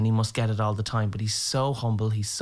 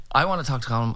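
lightly voiced stubborn demand; insist, only slightly raised; mild mock insistence; 3 semitones higher, much faster than usual. Dad demands to meet the singer, mildly insistent. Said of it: "your father was insisting on".

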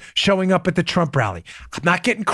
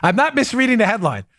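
normal talking voice

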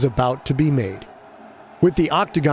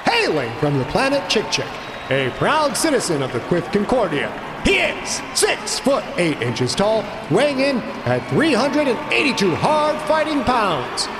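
booming fighting game announcer; 8 semitones higher than usual. A narrator's reading. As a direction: build to a roar on the name. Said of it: "the announcer continued".

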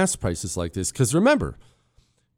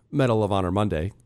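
normal talking voice

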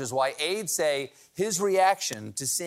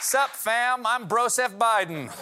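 bro voice; 6 semitones higher than usual. Acted. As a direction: pump it up like a gym bro. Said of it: "he wants to be a bro".

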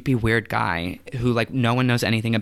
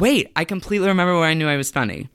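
laughing; 5 semitones higher, 5 dB louder, faster than usual. Real, not acted. Sudden funny realization.

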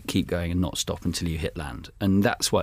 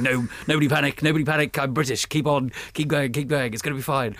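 higher, hammed-up keep-calm British captain; mock stiff upper lip; 6 semitones higher than usual. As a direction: play the plucky Brit telling himself not to panic. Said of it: "I'm rowing along with one arm going".

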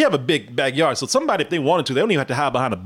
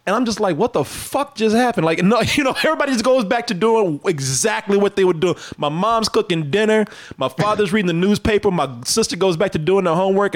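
higher, laughing disbelief; amused disbelief; 6 semitones higher than usual. Real, not acted. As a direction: still amazed at how it played out. Disbelief after the confession.

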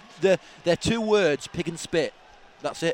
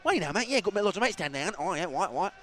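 matey, put-on Cockney chatter; lightly hammed Cockney impression; mock Cockney; 5 dB quieter than usual. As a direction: mimic a mate turned fake Cockney. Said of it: "talking like a Cockney".

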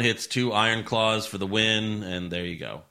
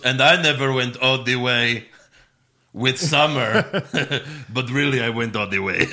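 imitating Rusev. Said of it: "and then Rusev goes".

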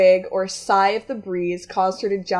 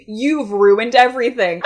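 louder, accusing theatrical fury; seething; 5 dB louder than usual. Acted. Young man blaming his date, seething. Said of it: "the young man seethed".

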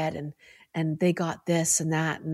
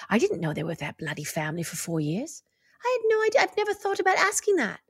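lightly voiced English husband; imitating her English husband, understated accent; bad English accent; 3 semitones higher than usual. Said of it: "I'm doing the worst accent".

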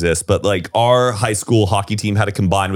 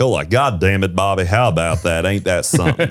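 put-on Texas accent; 3 semitones lower than usual. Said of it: "Dallas is very, like, king of the hill".

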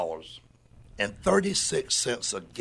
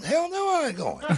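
flat refusal; 14 semitones higher than usual. Retold or imitated. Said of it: "I'm like".

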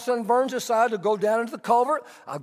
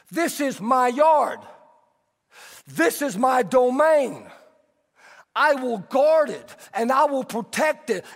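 kingdom of self voice. Retold or imitated. Voicing the man of self.

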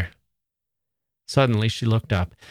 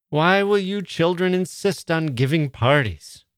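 exhausted hostess mother; 6 semitones higher than usual. Acted. Mrs Sheridan, exhausted hostess.

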